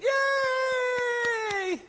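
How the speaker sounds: high, shrill-pitched mock cheer; a crowd of nuns whooping. Nuns cheering the speaker, high mock cheer. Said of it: "And all the nuns went".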